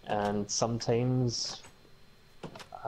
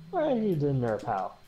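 Irish accent; 4 semitones higher than usual. Shown as a demonstration. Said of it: "the Irish one".

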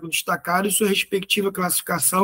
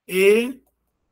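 "Economia" as E, co, no, mi, a, with pauses between; syllable by syllable. Shown as a demonstration. Teacher exposing the hiatus, "Economia" syllable by syllable. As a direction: split "Economia" into five separate beats. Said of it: "separação de vogais em sílabas distintas".

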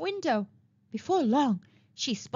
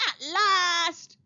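higher, laughing cry of relief; a long wait finally over; joyful cry; 7 semitones higher than usual. A narrator's reading. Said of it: "cried the other pig".

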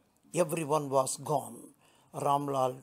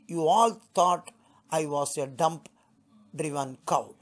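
louder, defiant retort; fierce retort; 2 semitones higher, 3 dB louder than usual. Acted. Bride turning on the old aunt, louder and defiant. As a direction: turn on the aunt hard. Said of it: "turned violently on the old woman".

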